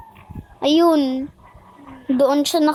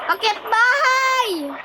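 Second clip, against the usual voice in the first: high, slow sing-song call; excited call; 6 semitones higher, slower than usual. Pretend. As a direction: announce it with glee, drawn out. Calling out a game move.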